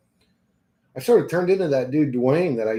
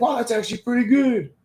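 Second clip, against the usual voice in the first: higher, surprised "wow" from a friend; impressed friend; 9 semitones higher than usual. Retold or imitated. Friend hearing the EDM song, mildly impressed. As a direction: lightly voice the impressed buddy.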